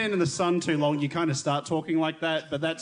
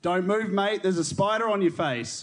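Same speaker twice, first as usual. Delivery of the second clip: Australian phrase demo; 3 semitones higher than usual. Shown as a demonstration. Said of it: "here's the next phrase".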